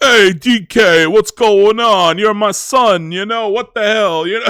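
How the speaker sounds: put-on weird Italian mobster accent. Describing how they voiced Cranky Kong, doing the Cranky Kong Italian mobster voice. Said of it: "weird Italian mobster kind of like".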